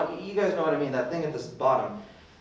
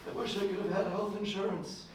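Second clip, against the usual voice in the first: dying man's last words; 4 semitones higher, 9 dB quieter than usual. Acted.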